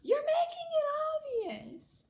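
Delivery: sharp high yell that fades on the last word; yelling across a parking lot after a friend who is leaving; retold yell. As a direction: shout it after someone walking away. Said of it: "I hear Zach yelling behind me".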